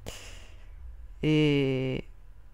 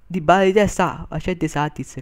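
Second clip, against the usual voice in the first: excited commentary; 3 semitones higher, 6 dB louder than usual. Real, not acted. Chance called out loud.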